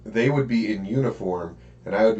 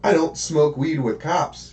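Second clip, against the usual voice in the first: slow insistent repeat; 5 semitones higher than usual. Retold or imitated. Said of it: "I'm like".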